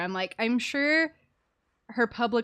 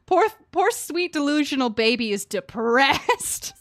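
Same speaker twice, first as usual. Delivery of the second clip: slow, louder mock-cooing; mock pity; 3 semitones higher, 5 dB louder than usual. Real, not acted. Streamer teasing the moping character, mock cooing.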